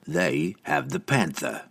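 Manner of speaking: mild menace, taken slowly; understated growl at her. Acted. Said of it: "Entreri growled at her".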